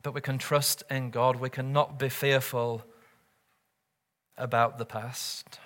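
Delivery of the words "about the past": slow whisper on "about the past". Real, not acted. Preacher whispers to the anxious congregation.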